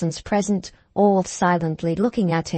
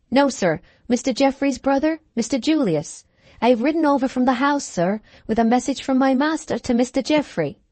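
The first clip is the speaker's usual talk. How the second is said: higher, brisk servant voice; deferential groom; 5 semitones higher than usual. Acted. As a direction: report respectfully as a groom, pitched up. Groom delivering a message.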